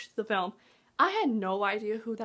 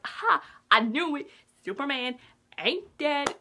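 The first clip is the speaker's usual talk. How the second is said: triumphant aha; 2 semitones higher, 4 dB louder than usual. Retold or imitated. Triumph at moving dirt.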